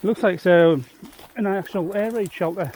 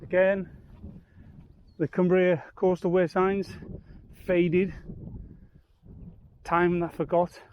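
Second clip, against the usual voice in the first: wind on mic; 3 dB quieter, slower than usual. Real, not acted. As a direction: wind buffeting the microphone. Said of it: "Excuse the wind noise".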